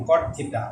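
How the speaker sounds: কট থিটা with a short clipped "cot"; teacher modelling কট থিটা; pronunciation demo. Shown as a demonstration. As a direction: say কট থিটা clearly for students. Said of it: "উচ্চারণটা just এরকম".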